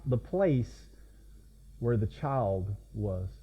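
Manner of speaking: unhurried Bible reading, phrases falling low; scripture reading. Acted. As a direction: read the verse out solemnly with long pauses. Reads the Bible verses aloud.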